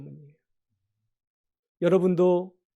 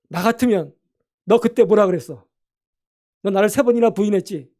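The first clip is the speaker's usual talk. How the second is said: louder, scolding Jesus voice, mock stern; imagined rebuke; 3 semitones higher, 7 dB louder than usual. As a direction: rebuke Peter like a let-down teacher, loudly. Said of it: "막 이렇게 책망했을 것 같은데". (꾸짖는 척하는 큰 목소리)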